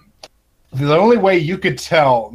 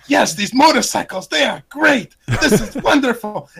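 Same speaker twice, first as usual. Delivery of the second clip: put-on high, stiff German-accent praise; mock German accent; 9 semitones higher than usual. Podcaster imitating the German biker couple, hammed-up German accent. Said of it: "and I was like".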